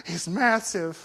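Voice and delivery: gasp, then hushed mock amazement; awed hush. Onlookers seeing him reach over the fence, awed hush. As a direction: gasp and marvel under your breath.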